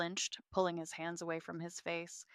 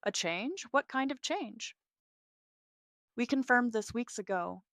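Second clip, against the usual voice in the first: alarmed surprise; 5 semitones higher than usual. Acted. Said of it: "Sydney's composure faltered".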